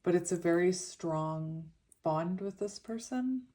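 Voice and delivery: slushy s through a retainer; lisping lightly on the s. Real, not acted. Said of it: "Sorry for the lisp".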